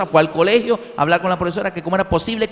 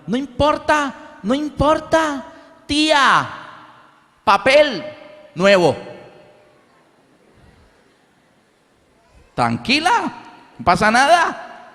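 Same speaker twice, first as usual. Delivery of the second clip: put-on much higher, slow, muffled child voice; carefree little boy mumbling; deaf child's speech; 8 semitones higher, slower than usual. Deaf brother tells mother not to worry, muffled child voice.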